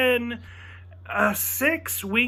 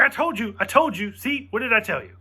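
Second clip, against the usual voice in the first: higher, smug I told you; gloating; 4 semitones higher than usual. Retold or imitated. Imitating his friend gloating about the B-Wings, smug. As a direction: rub it in like a winner.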